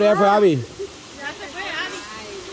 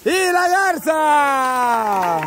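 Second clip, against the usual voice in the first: slow, stretched-out host cry; drawn-out announcer call; much slower than usual. Real, not acted. Host calls the finish to the crowd, drawn-out announcer call. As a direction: drag out the words like a ring announcer.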